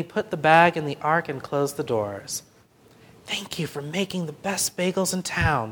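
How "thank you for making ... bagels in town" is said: softly spoken. A narrator's reading. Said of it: "Benny whispered".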